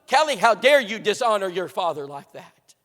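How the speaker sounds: loud, acted furious rebuke; screaming mother. Mother accusing daughter of dishonoring her father, screaming. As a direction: thunder it like an affronted mother. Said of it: "her mom's screaming at her".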